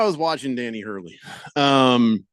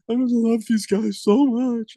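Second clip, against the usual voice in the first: higher, slow, mock-teary voice; mock tearful coach; 8 semitones higher, slower than usual. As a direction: imitate a coach choking up, slowly. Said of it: "he starts crying".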